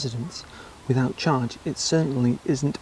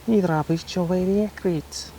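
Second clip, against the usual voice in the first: put-on failed Cockney accent; 5 semitones higher than usual. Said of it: "That wasn't Cockney, was it?".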